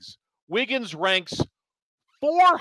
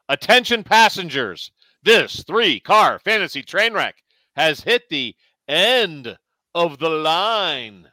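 train announcement. Acted. Train conductor parody sign-off.

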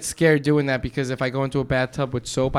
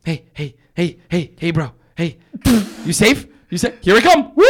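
excited, rising dolphin voice; chirpy hey-bro dolphin getting louder; 2 semitones higher, 4 dB louder than usual. Pretend. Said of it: "What about a dolphin? What do they sound like?".

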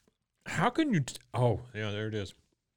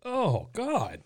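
eating sour candy; 10 semitones higher, slower than usual. Real, not acted.

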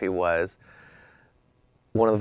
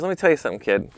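a light hint of a French accent, a bit higher; lightly imitating a French fashion photographer's accent; Gilles Bensimon's thick accent; 5 semitones higher, faster than usual. Legendary photographer lecturing the kid, in a light French accent. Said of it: "with his thick accent".

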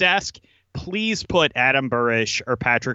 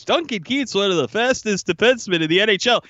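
higher mock-earnest voice quoting the analyst; mocking quote; 7 semitones higher than usual. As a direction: parrot the claim as if it were obvious. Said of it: "Anybody who says with a straight face".

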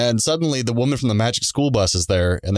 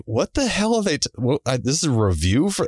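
confused in-laws; 6 semitones higher than usual. Retold or imitated. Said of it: "They're like".

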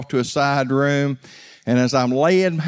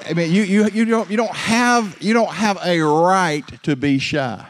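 raised, higher-pitched exhortation; impassioned preaching; 6 semitones higher, 4 dB louder than usual. Real, not acted. Preacher challenges the congregation to drop their shyness, impassioned preaching. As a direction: drive the challenge home with force.

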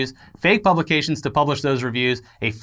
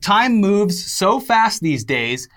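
pompous excuse voice. Pretend. Voicing Threatin's excuse.

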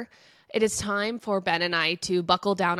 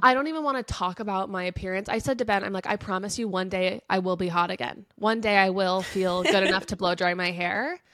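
stuffy nose. Real, not acted. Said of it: "this congested voice".

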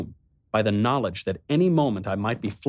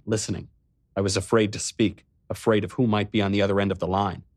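usual speaking voice

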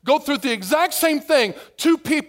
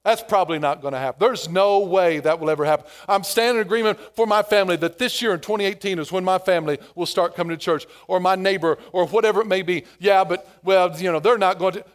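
doubtful mutter; 5 semitones lower, faster than usual. Retold or imitated. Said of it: "And you say things like this".

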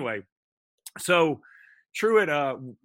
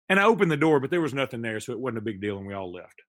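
deadpan letdown; 3 semitones lower, faster than usual. Retold or imitated. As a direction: let the story fizzle out flat. Kid's anticlimactic ending.

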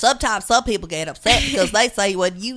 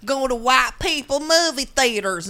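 put-on Southern accent; 3 semitones higher than usual. Mocking a racist robocall against a candidate, hammy Southern accent. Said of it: "I'm sorry I'm using a Southern accent".

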